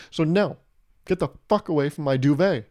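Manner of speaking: hammed-up scolding; mock-angry wife. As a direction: act a wife shooing her husband away. Wife shooing husband away, acted.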